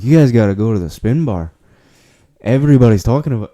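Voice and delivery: imitating the bar worker's Spanish accent, slipping toward Irish; a rough put-on Spanish accent; mock Spanish accent. Friend retelling the bar worker's tip in a mock Spanish accent. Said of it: "my fucking Spanish accent turned to Irish".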